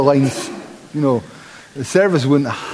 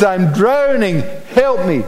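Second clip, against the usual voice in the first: urgent plea; 5 semitones higher than usual. Retold or imitated. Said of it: "He says".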